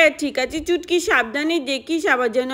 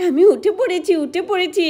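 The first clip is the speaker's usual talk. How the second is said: gleeful laugh; 3 semitones higher than usual. Acted. Climbed tree, gleeful.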